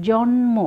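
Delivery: জন্ম as jon-mo, full m; ম sounded. Shown as a demonstration. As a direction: say n and m separately in জন্ম. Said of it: "উচ্চারণ পাচ্ছি".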